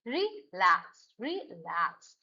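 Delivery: रिलैक्स slowly split, weight on लैक्स; stress on second syllable. Shown as a demonstration. Teacher drilling verb stress, stress on लैक्स in रिलैक्स. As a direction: stretch it out and settle on लैक्स in रिलैक्स. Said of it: "लैक्स stress है".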